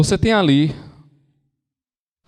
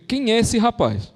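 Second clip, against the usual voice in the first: indignant, higher-pitched mock outrage; annoyed cardinal; 6 semitones higher than usual. Cardinal fed up with everyone consulting Bernardo, indignant. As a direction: act out an exasperated cardinal laying down the law. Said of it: "um cardeal ficou puto e fez".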